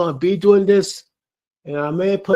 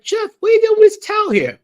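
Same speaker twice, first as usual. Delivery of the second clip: imitated viewer; 4 dB louder, faster than usual. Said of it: "You probably feel like".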